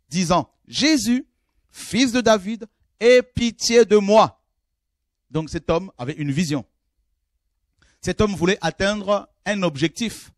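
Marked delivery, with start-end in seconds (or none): 0.7-4.4 higher, louder, slow plea for mercy; blind man's cry. Acted. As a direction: cry out slowly to be heard over the crowd. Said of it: "Alors il cria".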